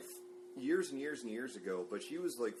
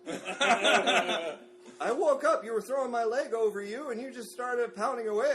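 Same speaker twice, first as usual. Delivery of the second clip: put-on girlfriend voice; 10 semitones higher, 8 dB louder, slower than usual.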